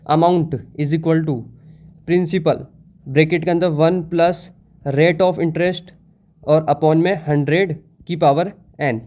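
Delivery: very slow, word by word, like dictating a formula; slow dictation. Shown as a demonstration. Teacher dictating the formula to students, very slow. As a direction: spell the formula out slowly for notes. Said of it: "formula क्या होता है".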